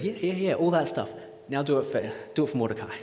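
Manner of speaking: breezy dismissal. Retold or imitated. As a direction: wave it away, then give the order. Acting out the king brushing Haman off.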